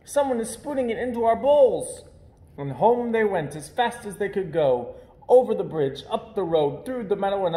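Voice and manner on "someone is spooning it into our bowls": higher, louder and eager; excited puppies. Acted. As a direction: gush with delight. Puppies excited about custard.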